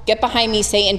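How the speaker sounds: a quick, no-nonsense dismissal, kept level; brisk rebuke. Retold or imitated. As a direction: Get behind me, Satan said firm and matter-of-fact. Jesus rebuking Peter, retold.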